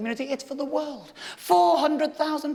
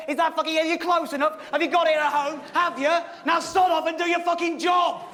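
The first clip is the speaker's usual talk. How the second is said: angry rant; 5 semitones higher than usual. Acted. Ranting at the cameraman.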